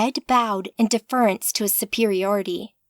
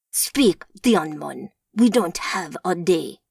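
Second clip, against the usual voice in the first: snapping; 4 semitones lower than usual. Acted. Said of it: "Marcus snapped".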